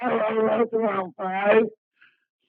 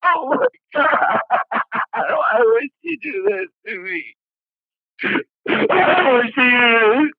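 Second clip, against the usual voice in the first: anguished crying; 5 dB louder than usual. Real, not acted. Caller breaking down on call.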